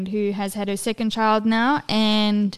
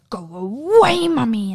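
imitating defiant toddler; 3 semitones higher, 3 dB louder than usual. Mom imitates son swiping at her face, defiant toddler. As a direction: push mommy away, imitating a small child. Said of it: "but he goes".

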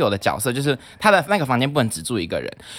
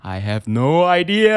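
breezy dismissal; 3 semitones higher, 5 dB louder, much slower than usual. Retold or imitated. Dismissing roommate's question.

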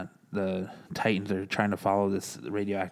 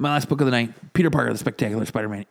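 big, loud, higher announcer build-up; hyped announcement; 5 semitones higher, 7 dB louder than usual. Real, not acted. Reviewer proudly announces his last comic of the night, loud and hyped. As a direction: sell the title like a show host. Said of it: "hyped announcement of last book".

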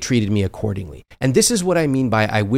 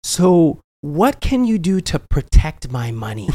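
playing naive; 4 semitones higher, slower than usual. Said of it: "I pretended to not know anything about money".

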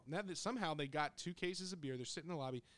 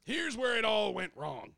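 slow, loud, higher doom-laden line; ominous narration; 7 semitones higher, 8 dB louder than usual. Acted. To the co-host, building dread before the fight. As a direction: announce the disaster like a trailer voice. Ominous turning point in story.

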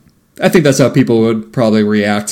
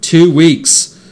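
higher-pitched imitation of the woman; TWO WEEKS pitched up as a mimicked reply; woman's stock answer; 4 semitones higher than usual. Large woman answering questions at the Mars line, imitated stock reply. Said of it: "answers a few other questions by saying".

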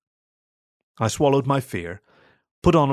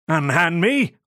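yowled cry for help; 6 semitones higher, slower than usual. Acted. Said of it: "I yowled".

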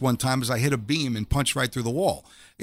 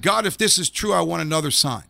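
pleading call; 3 semitones higher than usual. Retold or imitated. Pleading prayer to God.

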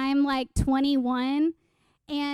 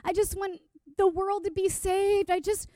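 earnest desire; 4 semitones higher than usual. Retold or imitated. Teen self prays to Jesus about her calling, earnest pleading. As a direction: pray it like a zealous teenager. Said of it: "This, like, earnest desire".

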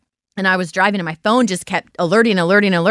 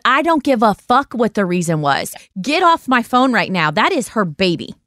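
retold irate outburst; 3 semitones higher than usual. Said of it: "I was so, like, irate".

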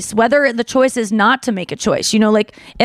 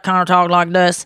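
lower-pitched singer impression; a rock singer; 4 semitones lower than usual. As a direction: drop the voice for a rock singer's talk. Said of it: "Eddie Vedder does".

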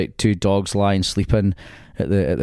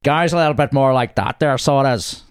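put-on mild Northern Irish accent; 4 semitones higher than usual. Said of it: "Like Jim McDonald out of".

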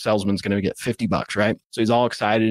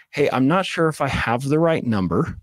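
a touch hesitant, unsure opener; 3 semitones higher than usual. Shown as a demonstration. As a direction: start unsure, not chasing. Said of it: "'Cause you're kinda already starting hesitant".

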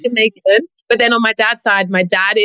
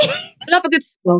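slow, drawn-out British accent model; British accent demonstration; 5 semitones higher, slower than usual. Shown as a demonstration. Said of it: "try it now".

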